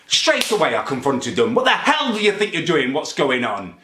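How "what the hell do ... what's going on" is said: sharp, higher retold outburst; angry confrontation. Confronting his mum over the tea, angry outburst. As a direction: catch them in the act and demand answers.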